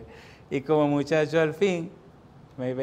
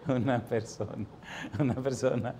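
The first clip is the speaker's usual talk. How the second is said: amused retelling; 2 semitones lower, 5 dB quieter than usual. Retold or imitated. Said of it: "me hizo mucha gracia".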